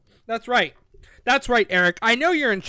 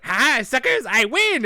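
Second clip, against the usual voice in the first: loud mock villain taunt; hammed-up triumphant jeer; gloating; 3 semitones higher, 5 dB louder, slower than usual. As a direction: crow over a stolen prize.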